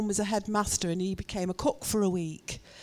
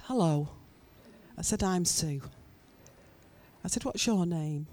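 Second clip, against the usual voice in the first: acting out a composed, friendly introduction; calm; 2 semitones lower, 3 dB quieter than usual. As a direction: talk someone down gently and evenly. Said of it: "the calmness".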